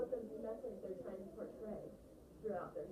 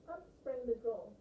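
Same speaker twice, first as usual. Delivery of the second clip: slow, dramatic storyteller; reading with voice. Shown as a demonstration. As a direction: draw out the troll's sudden appearance. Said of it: "think about voice as I read this".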